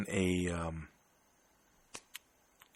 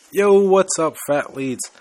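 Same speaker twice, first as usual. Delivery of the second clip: much higher and louder, pumped-up hello; hyped greeting; 7 semitones higher, 8 dB louder, slower than usual. Real, not acted. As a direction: call out the greeting like opening a show. Podcast host greets listeners energetically.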